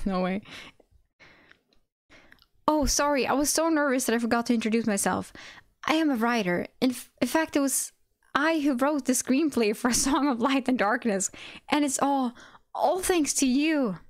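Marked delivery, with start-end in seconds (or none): 2.7-14.0 eager high praising voice; gushing fan. Acted. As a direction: starstruck writer gushing. Fanboy writer gushing.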